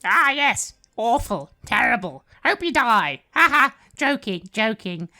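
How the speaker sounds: high, loud, mocking demon voice; Jezebel. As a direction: jeer gleefully like a little imp. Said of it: "this being called Jezebel snorts".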